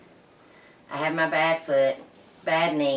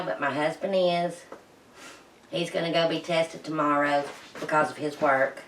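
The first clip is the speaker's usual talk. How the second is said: muffled behind a face mask; through a face mask. Real, not acted. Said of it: "I have a mask on my face".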